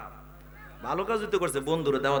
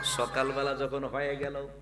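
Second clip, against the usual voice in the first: quiet narration; 7 dB quieter than usual. Real, not acted. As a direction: say it softly, without melody. First take, said quietly.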